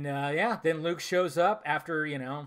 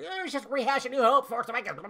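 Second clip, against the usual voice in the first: mocking fans; 7 semitones higher than usual. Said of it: "everybody was like".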